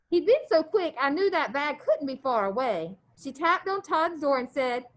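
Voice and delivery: steady read-aloud voice for the class; story read aloud. A narrator's reading. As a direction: read the chapter to the students. Teacher reads novel aloud.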